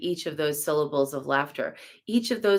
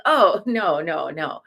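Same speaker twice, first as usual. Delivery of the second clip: clarifying laughter. Retold or imitated. Friend asks about meat, laughing correction. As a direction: laugh it off gently. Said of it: "Like that laughter".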